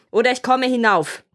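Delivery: Bluebeard's restrained storybook shout; calling out. A narrator's reading. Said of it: "rief Blaubart noch einmal".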